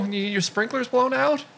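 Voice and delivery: put-on high, slow old lady voice; a sweet old lady pleading, slowly; little old lady voice. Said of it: "they get that little old lady voice".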